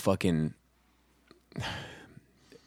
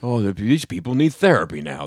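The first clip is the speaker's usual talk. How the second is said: lightly imitated dad, lower and measured; a hint of dad on the phone; dad's phone voice; 4 semitones lower than usual. Dad phoning his son about a TV show, in phone voice. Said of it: "that's his phone voice".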